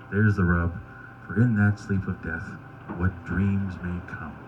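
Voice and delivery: lightly performed, quiet recitation of verse; Shakespeare recital. Acted. Comic closing with remembered Shakespeare, subdued measured recital.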